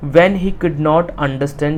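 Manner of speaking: slow, careful reading for students; slow reading aloud. Shown as a demonstration. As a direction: read it out carefully for the class. Teacher rereads textbook line. (धीरे-धीरे पढ़ना)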